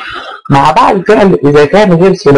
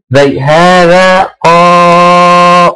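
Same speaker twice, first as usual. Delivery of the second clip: drawn-out example; much slower than usual. Shown as a demonstration. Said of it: "teacher demos the example word".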